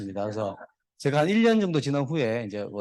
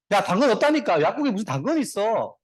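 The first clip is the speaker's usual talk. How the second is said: mock annoyance, louder and higher; raised voice of a fed-up joke pharmacist; exasperated pharmacist; 5 semitones higher, 3 dB louder than usual. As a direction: scold the pestering customer, lightly acted. Pharmacist snaps at pestering rabbit.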